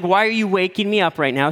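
a touch of startled protest; just-woken dad. Retold or imitated. Father-in-law complaining to wife about being woken, mildly startled. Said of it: "out of a dead sleep".

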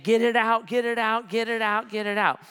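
panicked pleading. Retold or imitated. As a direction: imitate a frantic child repeating the plea. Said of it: "And I kept saying".

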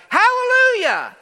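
high, drawn-out shouts of praise; loud, slow, soaring acclamation; jubilant shout. Acted. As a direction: shout it out for a whole multitude. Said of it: "again they shouted".

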